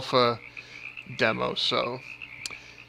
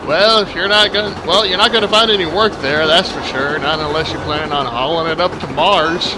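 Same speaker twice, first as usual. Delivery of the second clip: put-on southern accent. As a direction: lay the Southern accent on thick. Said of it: "exaggerate my already southern accent".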